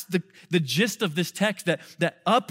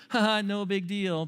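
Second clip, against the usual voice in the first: casual laugh-off; 2 semitones higher than usual. Pretend. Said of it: "because you're casually laughing off your sin".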